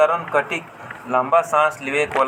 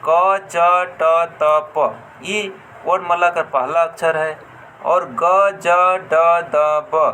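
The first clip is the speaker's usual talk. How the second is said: loud letter demo; 4 dB louder than usual. Shown as a demonstration. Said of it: "जैसे".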